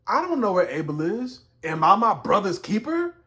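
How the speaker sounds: mildly cheeky, rising challenge; a touch of backtalk, ending on a questioning rise; smart-mouthed. Acted. Cain answering God, mildly smart-mouthed. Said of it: "being smart at the mouth".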